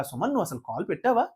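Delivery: imitating the host's soft, gentle question; very softly. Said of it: "సుమన్ని చాలా మెత్తగా".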